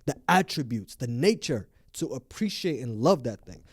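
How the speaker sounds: earnest, emphatic plea; passionate. Real, not acted. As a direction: press the point with real conviction. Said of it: "I'm a little bit passionate about this".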